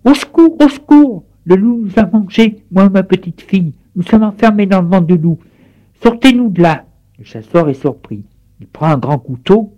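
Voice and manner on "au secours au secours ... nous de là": grandmother crying for help. A narrator's reading. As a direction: shout for help from inside the wolf. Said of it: "elle crie". (la grand-mère crie au secours)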